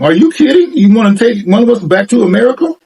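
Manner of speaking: high, incredulous squeal of the ladies; giggly disbelief. Retold or imitated. Old ladies laughing at a tourist, high mock disbelief. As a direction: tease him, half shocked, half flattered. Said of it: "that's why they were laughing".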